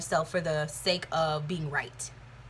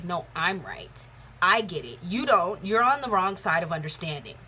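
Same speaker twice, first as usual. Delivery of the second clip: a smug, know-it-all lecture, only lightly put on; mock pompous. Imitating a pompous know-it-all who corrects everyone. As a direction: talk down to them like you're always right. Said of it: "that pompous energy that's like".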